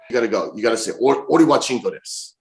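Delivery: lightly imitated friend teaching a phrase; Bad Luck Fale. Wrestler teaching his friend Japanese, light impersonation. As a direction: coach it in a slightly put-on voice. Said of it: "this is my best Fale impersonation".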